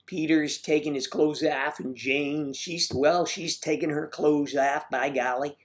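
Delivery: put-on caricatured Midwestern accent; folksy mock Midwest accent, lilting up at the end; Midwest accent impersonation. Host showing viewers a sad impression, Midwest accent. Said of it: "My impersonation was".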